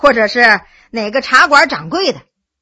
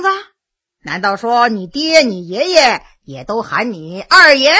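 sneering. Acted. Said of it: "冷笑着说".

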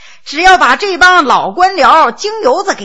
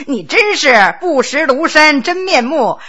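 ordinary delivery

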